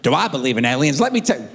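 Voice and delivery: grown son as an Alabama yokel, voice swinging up; hammed-up Southern accent from Alabama. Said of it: "he's moved to Alabama".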